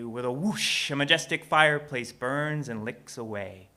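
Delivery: theatrical rhyming storyteller; measured phrases with punched key words and dramatic pauses; story narration. A narrator's reading. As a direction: perform it like spoken-word storytelling. Reads own rhyming story aloud.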